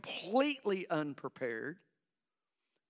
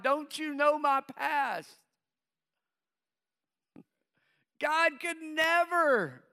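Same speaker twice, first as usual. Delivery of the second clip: high anxious pleading; 5 semitones higher, 3 dB louder than usual. Retold or imitated. Voicing overwhelmed believer's inner panic.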